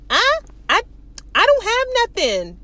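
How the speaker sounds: high, stammered mock protest; defensive protest. Man denies having anything on him, defensive. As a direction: stammer it high, acting put upon.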